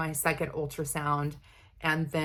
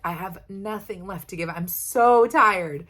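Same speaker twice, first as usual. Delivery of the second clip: exhausted self; 2 semitones higher, 4 dB louder than usual. Retold or imitated. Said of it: "I'm like".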